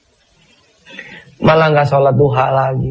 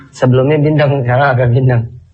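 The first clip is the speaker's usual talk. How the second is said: blocked nose; nasal voice. Real, not acted. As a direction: speak through a stuffy nose. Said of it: "Suara juga kan agak bindeng nih".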